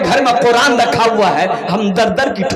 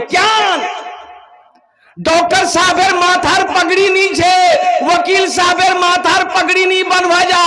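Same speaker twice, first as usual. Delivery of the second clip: raised, high preaching voice; fiery preaching; 6 semitones higher than usual. Real, not acted. (ऊँची आवाज़ में जोशीला प्रवचन)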